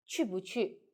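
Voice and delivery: 去不去 with a brief, unstressed 不; light, short 不. Shown as a demonstration. Teacher gives another example, 去不去 with light, short 不. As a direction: skim over 不 in 去不去. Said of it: "So let's put light and short".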